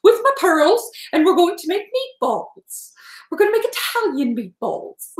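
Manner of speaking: Julia Child impression. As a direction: lightly voice Julia Child as the cooking host. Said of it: "my Julia Child's impersonation".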